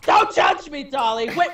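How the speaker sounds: supermodel voice. Acted. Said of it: "supermodel that was paranoid".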